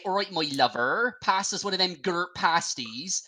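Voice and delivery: put-on Bristolian accent. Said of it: "a Bristolian say".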